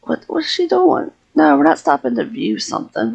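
high, fast mock Sim voice; voicing her Sim. Streamer voicing her Sim, high and quick. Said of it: "She's like".

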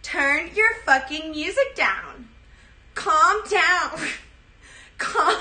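a hint of an entitled Karen snapping; mild mock Karen demand. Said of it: "lines for the Karen wig".

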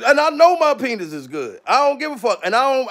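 ordinary delivery

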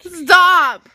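loud, high, laughing; laughing protest. Real, not acted. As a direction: squeal it while being tickled. Being tickled.

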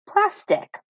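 teacher's high reveal of "plastic"; blended word. Shown as a demonstration. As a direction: pop the whole word out bright and high at the end. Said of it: "making it a short I sound".

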